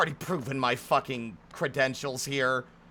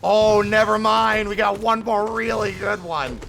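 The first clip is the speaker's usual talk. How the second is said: higher, much louder delighted exclamation; excited outburst; 6 semitones higher, 9 dB louder, slower than usual. Real, not acted. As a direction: burst out happily at the find. Excited at new dialogue.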